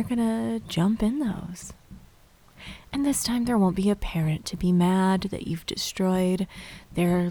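soft spa whisper. Acted. Leads autumn dream visualization.

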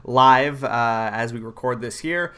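talking through hiccups; hiccuping between words. Real, not acted. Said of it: "excuse my hiccups".

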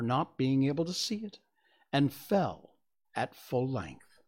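measured, expressive storybook reading; story narration. A narrator's reading. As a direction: read it aloud as a storyteller, phrase by phrase. Reads a story aloud.

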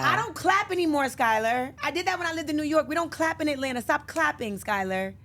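loud, high, emphatic mom rant; retold motherly scolding. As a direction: scold a clapping child, hammed up. Voices mother scolding daughter for clapping.

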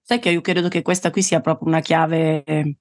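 talking while chewing an almond; mouth full. Real, not acted. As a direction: speak around a mouthful. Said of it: "sto mangiando una mandorla".

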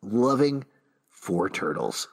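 hushed bedtime story voice; fairy tale opening. Pretend. Storybook dedication to Pete.

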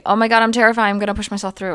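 a hammed-up burst of fear; mock terrified. Voicing terrified self-talk.

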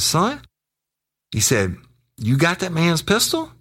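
high, incredulous questioning; imitated pointed question. Officer asking informant about the pistol, high imitated incredulity. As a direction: pitch way up as if questioning a youngster.

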